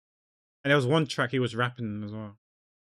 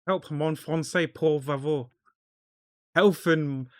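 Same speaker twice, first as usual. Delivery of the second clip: playful plea; 3 semitones higher, slower than usual. Acted. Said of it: "My French is gone".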